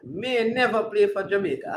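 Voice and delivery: disbelieving, shouted repeat of the claim; incredulous shout. Real, not acted. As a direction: throw the claim back in disbelief.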